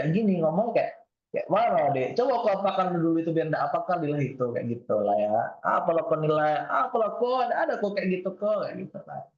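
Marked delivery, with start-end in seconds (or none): 1.5-4.4 put-on Medan accent. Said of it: "kalau saya lahir di Medan gitu". 5.6-8.7 put-on Palembang accent. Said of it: "Itu mungkin Palembang ya".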